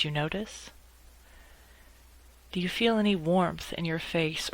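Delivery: calm meditation guide with long pauses between phrases; unhurried, measured guidance, leaving space after each instruction; guided meditation. Acted. Lawyer guiding colleagues upset by nasty emails, calm guided meditation.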